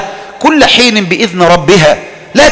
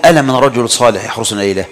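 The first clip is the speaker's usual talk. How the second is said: quiet quoted call; 8 semitones lower, 5 dB quieter, faster than usual. Retold or imitated. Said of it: "النبي يقول".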